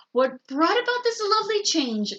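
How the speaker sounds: sweet teacher. A narrator's reading.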